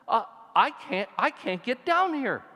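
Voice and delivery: high, panicked plea, replayed from memory; reliving the terror of the sheer drop; high voice of a scared hiker at a ledge; retold panic. Retelling fear at a cliff edge.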